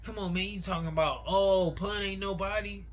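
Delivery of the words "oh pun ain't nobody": mildly exaggerated stress on the opening "Oh"; emphasized mocking quote. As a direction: imitate someone overemphasizing "Oh, Pun". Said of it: "Why you trying to emphasize that".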